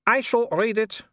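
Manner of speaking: high, sugary voice with a smile; the baroness takes his letter with false sweetness; smiling sweetly. A narrator's reading. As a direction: say it sweetly as you snatch the letter. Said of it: "smiling sweetly".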